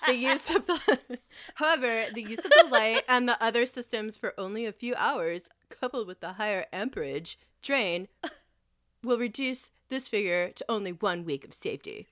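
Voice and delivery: laughing through a smug nerd voice; smug know-it-all read, breaking up; neck beard voice. Pretend. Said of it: "That's how I make the fucking voice".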